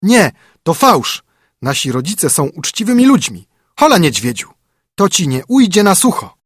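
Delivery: high, loud, indignant chick cries; young wrens yelling at the bear, outraged and shrill-high; outraged shout. A narrator's reading. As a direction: shriek back in offended fury. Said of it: "oburzyło to je okrutnie i krzyknęły".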